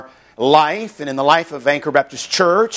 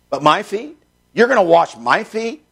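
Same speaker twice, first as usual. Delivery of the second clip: skeptical, pitched-up questions with rising ends; Peter; 4 semitones higher than usual. Acted. Preacher voicing the disciple objecting to Jesus, skeptical and incredulous. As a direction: question it in disbelief, lifting "feet" each time. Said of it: "he was very skeptical of that".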